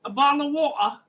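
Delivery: put-on British accent, Black Country attempt; mock British accent. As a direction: imitate an English accent on a short phrase. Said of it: "the black country".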